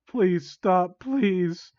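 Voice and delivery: half-earnest begging. Acted. Victim begs villain to stop, mildly pleading. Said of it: "You began to beg".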